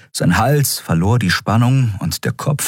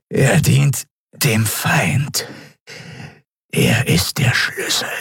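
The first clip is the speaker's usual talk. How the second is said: breathy hushed whisper from far off; eerie whispered alien; 2 semitones higher, slower than usual. Acted. Captive Draxyl whispering cryptic answers to the admiral. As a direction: hiss it like a secret.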